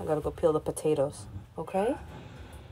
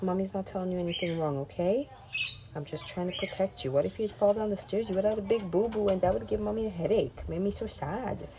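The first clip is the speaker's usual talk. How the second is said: soothing; 5 dB quieter than usual. Real, not acted. Mother comforts her crying child.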